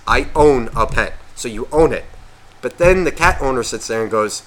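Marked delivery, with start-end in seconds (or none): 0.1-1.1 "I own a pet" with drawn-out "own"; pointed quote. Shown as a demonstration. Asks listeners to think about the sentence, stressing "own". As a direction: spell out "I own a pet" for emphasis. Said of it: "Think about that sentence".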